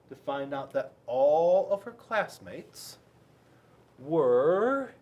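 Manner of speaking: building suspense. A narrator's reading.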